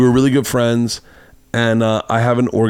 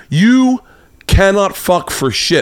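mock furious insult; 9 semitones higher, much slower than usual. Woman insulting him at the door, furious. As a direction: yell the insult like a scorned lover.

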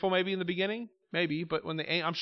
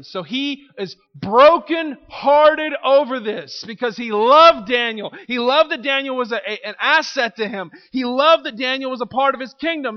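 louder, impassioned sermon voice; fervent preaching; 6 semitones higher, 8 dB louder than usual. Acted. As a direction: preach it with rising fervor. Preaching builds.

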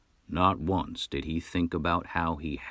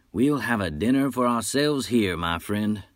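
boastful hunter; 4 semitones higher than usual. Acted. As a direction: brag like a swaggering frontier hunter. Nash proposes dinner.

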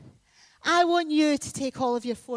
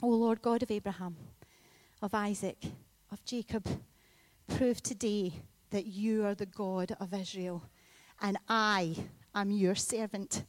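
earnest prayer; 3 semitones lower than usual. Retold or imitated. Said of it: "he prays this prayer".

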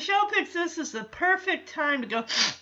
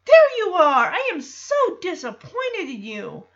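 mock scolding blame; 5 semitones higher, 3 dB louder than usual. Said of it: "full-on blame game".

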